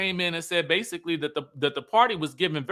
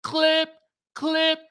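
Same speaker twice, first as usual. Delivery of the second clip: baffled disbelief; 8 semitones higher than usual. Retold or imitated. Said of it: "And I'm like".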